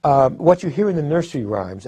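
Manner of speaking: ordinary delivery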